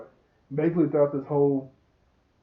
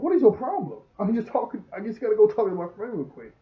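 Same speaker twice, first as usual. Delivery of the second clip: mock annoyed retort; 7 semitones higher, 3 dB louder than usual. Boy snaps at friend in retold argument.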